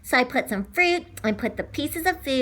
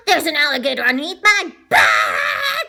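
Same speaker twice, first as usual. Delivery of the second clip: loud insistence; 4 dB louder than usual. Acted. Child insisting to parents.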